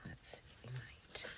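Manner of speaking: hushed thinking aloud; whispering. Real, not acted. Crafter quietly planning a page to herself, whispered. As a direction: breathe the words, no voice.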